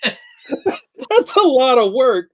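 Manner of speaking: high, slow, drawn-out wail. Pretend. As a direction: stretch it out high. Exaggerated reaction.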